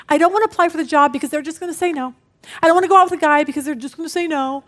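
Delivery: quick, sulky imitation of someone afraid of rejection; mock whiny excuses. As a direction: rattle off the excuses like a defeated complainer. Voicing fearful people's excuses.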